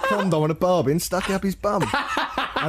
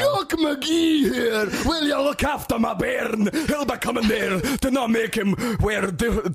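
much higher, slow hammed-up Scottish accent; booming fake Scotsman, dragged out; 7 semitones higher, slower than usual. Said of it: "huge Scottish man".

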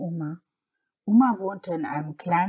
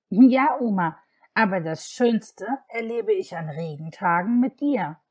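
put-on little girl voice; 2 semitones higher, 4 dB louder than usual. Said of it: "antwortete Samantha".

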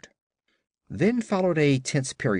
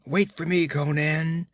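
calling more distinctly; 6 semitones higher than usual. Acted. A voice calling Conan from across the glade, nearer and clearer. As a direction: call out clearly so he hears you. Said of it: "The voice came more distinctly".

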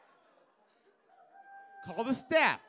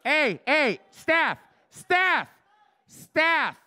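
loud call, higher pitch; 6 semitones higher, 7 dB louder, much slower than usual. Real, not acted. Comic summoning the wait staff, loud call. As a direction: call toward the back room.

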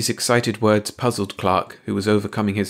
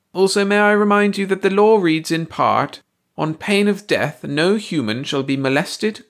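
high alien voice; 7 semitones higher, 4 dB louder than usual. A narrator's reading. Baldy quotes the law.

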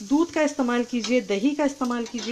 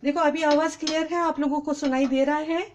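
raised voice to be heard on the stream; speaking up; 4 semitones higher than usual. Real, not acted. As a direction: push the voice out, a bit higher. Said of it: "मैं कितना चिल्ला चिल्ला के बोल रही हूँ".

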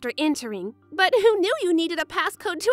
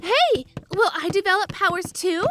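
eager excitement; 3 semitones higher than usual. Acted. Companion hoping for powers of their own, eager and excited. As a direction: pipe up excitedly, hoping for a yes.

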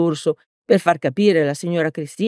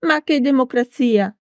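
put-on higher stern old teacher retort; 8 semitones higher, 3 dB louder than usual. A narrator's reading. Old teacher rejecting democracy, stern. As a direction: dismiss it like a strict teacher. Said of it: "rispose severa".

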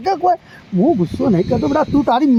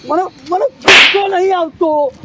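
angry denial; 2 semitones higher, 4 dB louder than usual. Acted. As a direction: deny the anger through clenched temper, louder. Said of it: "ઉભા રહો દાદા". (વધતા ગુસ્સામાં, ધીમેથી અને મોટા અવાજે ઇનકાર)

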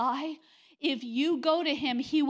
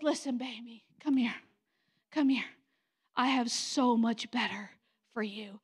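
tender voice of the Lord; 3 semitones lower than usual. Retold or imitated.

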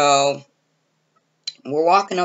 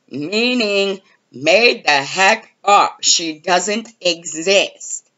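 higher, louder arguing in disbelief; exasperated disbelief; 5 semitones higher, 4 dB louder than usual. Retold or imitated. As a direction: set him straight, fed up. She argues with Justin in disbelief.

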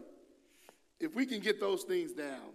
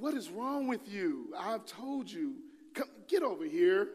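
higher, louder, drawn-out scolding; exasperated God; 6 semitones higher, 5 dB louder, slower than usual. Retold or imitated. God scolding a wandering believer, exasperated and higher. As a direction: call him back, fed up. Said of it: "That's how he talked to me".

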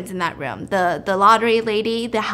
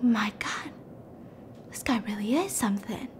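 very soft, half-whispered amazement; acted-out quiet wonder; hushed awe; 10 dB quieter than usual. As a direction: murmur it to yourself, impressed. Lottery lady awed by his knowledge.

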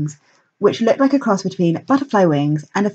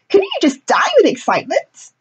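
pixie; 13 semitones higher than usual. A narrator's reading. Excited fire pixie speaks.

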